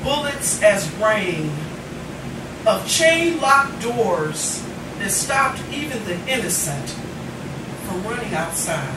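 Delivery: measured, deliberate poetry reading; slow, weighted spoken-word delivery; poem recitation. Acted. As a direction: read it like spoken word on stage. Opens with a poem.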